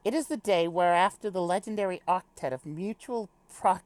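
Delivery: lightly British, formal character reading; little British accent. Acted. Character gives a pep talk on the legendary octet, light British accent. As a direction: read it formally with a hint of British. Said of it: "do a little British accent".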